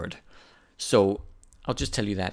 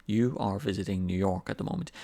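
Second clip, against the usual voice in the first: "You are visiting New York at the moment" kept level, as a statement; plain statement, "moment" not pushed up into a question; statement intonation. Shown as a demonstration. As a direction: state it evenly, no big lift on "moment". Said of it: "That's a statement".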